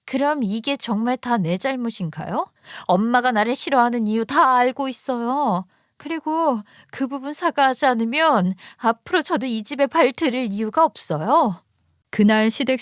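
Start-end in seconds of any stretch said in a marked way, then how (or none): 0.1-11.6 lightly acted hurt sister-in-law; a touch of wounded defiance; resentful daughter. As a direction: give your mother a firm ultimatum. Narrator voices hurt sister-in-law.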